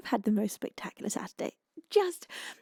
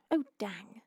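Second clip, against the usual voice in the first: English-accent dang; 2 semitones lower, 6 dB quieter than usual. Shown as a demonstration. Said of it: "If you say dang with an, uh, English accent".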